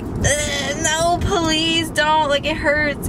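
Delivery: drawn-out, pained mock plea; retold inward yelling. Donor inwardly begging as the needle digs, pained. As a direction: imitate begging slowly through the hurt. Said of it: "Inside, I'm yelling".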